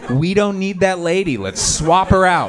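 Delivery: mock team manager. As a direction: pitch it like a coach swapping players. Mock sports manager trading players.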